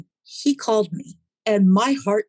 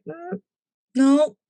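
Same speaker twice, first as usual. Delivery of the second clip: tiny pitched-up no; high squeaky refusal; 9 semitones higher than usual. Retold or imitated. Refusing mom again, squeaky high. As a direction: whimper a no like a kid. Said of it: "I was like".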